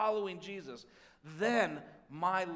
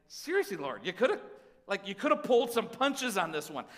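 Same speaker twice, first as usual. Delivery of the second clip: mock exasperated complaint; 5 dB louder than usual.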